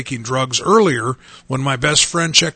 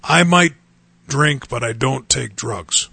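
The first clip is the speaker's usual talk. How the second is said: mocking an excuse. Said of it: "how dumb that would sound to those guys".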